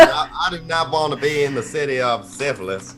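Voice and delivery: hammed-up Southern voice with a laugh; southern accent. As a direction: object in a put-on Southern accent. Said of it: "his southern voice. That was amazing".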